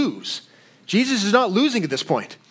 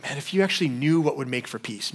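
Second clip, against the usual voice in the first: heartbroken; 4 semitones lower, 5 dB quieter than usual. Retold or imitated. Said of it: "he's heartbroken".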